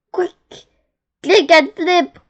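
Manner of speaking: high, loud urgent command; urgent cry. A narrator's reading. Wise old beetle warns the young one, urgent cry. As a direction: call out a sudden urgent order. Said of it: "cried the wise old click beetle".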